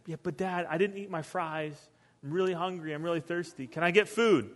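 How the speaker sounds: softly voiced nagging kid; pleading son. Son begging dad for stadium food, soft pleading. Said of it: "and really frustrated".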